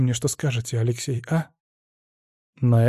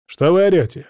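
louder indignant snap; 4 semitones higher, 5 dB louder than usual. Acted. Husband indignantly scolding the shouting women. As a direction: scold them for the noise. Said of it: "возмущённо сказал муж".

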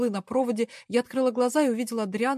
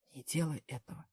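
low, much softer whisper; urgent whisper so nobody hears; 5 semitones lower, 9 dB quieter than usual. Acted. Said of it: "прошептал он мне".

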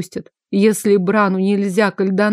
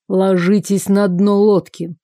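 slow, hard metallic command; cold metallic order, slow; slower than usual. Acted. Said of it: "металлическим голосом распорядился Бран".

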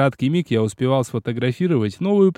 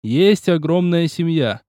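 slow hollered verse; 2 semitones higher, slower than usual. Acted. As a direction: holler each word slowly. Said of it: "заголосил Киоси".

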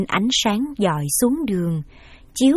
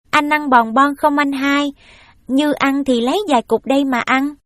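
put-on little girl; 5 semitones higher, 4 dB louder than usual. Little girl offers candy.

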